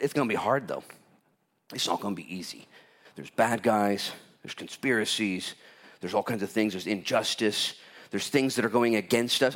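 low, subdued voice of doubt; discouraged naysayers. Retold or imitated. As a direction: drop low and list the worries glumly. Quotes ten fearful spies' discouraged report.

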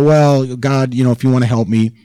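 mild, offhand half-hearted prayer; noncommittal, take-it-or-leave-it asking; casual prayer. Acted. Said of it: "kind of a casual prayer".

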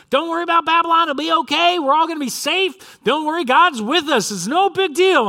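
high-pitched, loud false-prophet proclamation; mock yelling. False prophets standing up in Israel, yelling reassurances. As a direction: yell out blithe reassurance to a crowd. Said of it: "yelling, screaming".

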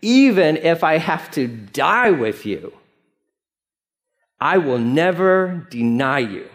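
slow, emphatic acted vow; solemnly insistent pledge; emphatic declaration. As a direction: declare it slowly, leaning on each word. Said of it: "He declares emphatically".

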